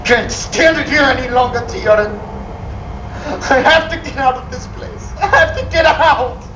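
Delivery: rising, breaking sobbed plea; crying. Acted. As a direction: break down in tears.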